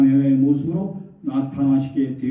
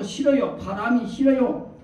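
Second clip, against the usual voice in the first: higher-pitched retold refusal; protesting grandmothers; 6 semitones higher than usual. Grandmothers rejecting God as wind, protesting. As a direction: object in a lightly acted granny's plea.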